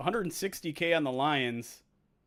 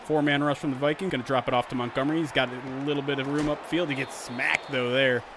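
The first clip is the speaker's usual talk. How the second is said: louder, brisk sportscaster call of the kickoff return; play-by-play commentary; 4 dB louder than usual. Acted. Streamer calling the Madden sim to viewers, announcer style.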